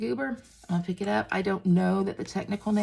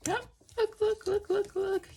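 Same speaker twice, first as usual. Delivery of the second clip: excited; 12 semitones higher, 3 dB quieter than usual. Real, not acted. Excited showing the finished weave.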